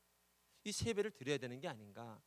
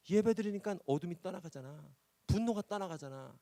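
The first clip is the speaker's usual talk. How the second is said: proclaiming; 5 semitones higher, 7 dB louder than usual. Acted. Preacher proclaims to nephew.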